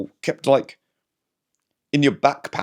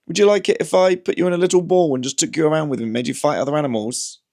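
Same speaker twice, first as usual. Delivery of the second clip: higher, fast playful question to the cat; teasing the cat in a raised voice; pet voice; 6 semitones higher, faster than usual. Acted. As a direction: rattle it off to the cat, pitched up. Asking the cat.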